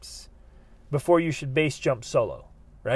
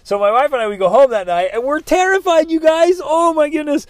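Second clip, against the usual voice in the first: higher and louder, swept up in remembered fear; worked-up telling; 11 semitones higher, 9 dB louder than usual. Real, not acted. Telling the audience about the scary night, keyed up and loud. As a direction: tell it to the audience all keyed up. Recalling terror the night before.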